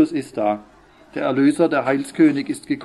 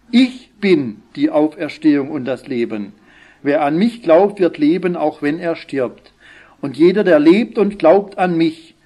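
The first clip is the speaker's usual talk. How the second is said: raised, measured Gospel reading; Scripture reading; 3 dB louder than usual. Real, not acted. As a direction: read the dialogue out with firm emphasis. Reads Scripture aloud.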